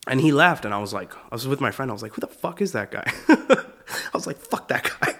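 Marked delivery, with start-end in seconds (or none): 2.1-5.2 high, laughing retold gripe; laughing disbelief. To his friend about the rude comic, laughing incredulously. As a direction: break up laughing as you curse him.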